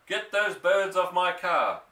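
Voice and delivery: a high, loud angry bellow. A narrator's reading. Mister Hazel ordering the sergeant, bellowing. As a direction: roar the order. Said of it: "Mister Hazel bellowed".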